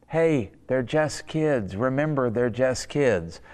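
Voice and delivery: slow, gently reasoning wife; calming wife. Retold or imitated. Wife to frustrated husband about the children, calming. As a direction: talk him down slowly, stretching the words. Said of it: "and she goes".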